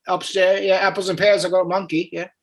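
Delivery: rambling fake Cockney patter; hammed-up English lad; put-on English accent. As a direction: keep repeating slang in a mock British accent. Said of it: "that accent is not bad".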